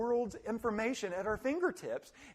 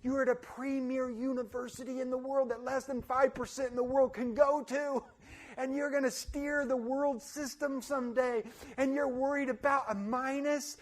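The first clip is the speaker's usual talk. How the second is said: exasperated professor; 4 semitones higher than usual. Retold or imitated. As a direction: dismiss the student in disbelief. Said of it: "And I'm thinking".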